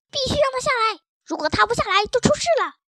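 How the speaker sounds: high, loud, strained cry; thin-voiced shouting. A narrator's reading. Crooked-neck cat urges the others to get it down, shrieking thinly. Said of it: "扯着细嗓子喊着".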